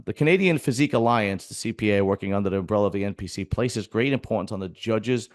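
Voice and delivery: reading an official statement aloud; steady, formal reading voice. Shown as a demonstration. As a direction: reads the association's notice aloud. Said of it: "it says".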